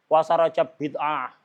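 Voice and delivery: "bid'ah" with the 'ain caught in the throat, as if choking; mock choked 'ain. Preacher mimics someone condemning Rajab fasting, choking on "bid'ah". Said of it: "Ente itu tersedak ain".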